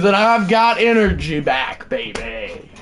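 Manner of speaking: winded after yelling; out of breath. Real, not acted. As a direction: talk while catching your breath. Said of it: "I'm out of breath".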